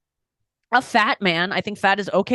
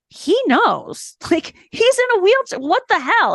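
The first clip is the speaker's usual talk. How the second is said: mock indignant; 9 semitones higher, slower than usual. Retold protest, laughing.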